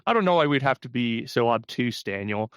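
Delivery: squirm out of it with a giggle; Eli refusing. Retold or imitated. Mocking Eli refusing to call himself a false prophet, nervous and giggly. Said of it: "Eli's like".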